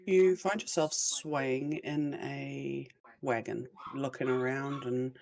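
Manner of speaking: slow storyteller voice; scene narration. Acted. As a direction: set the scene slowly. Game master sets the scene.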